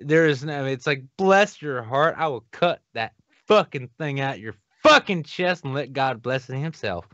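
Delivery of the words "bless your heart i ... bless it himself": put-on southern accent. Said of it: "no greater fucking accent in the world".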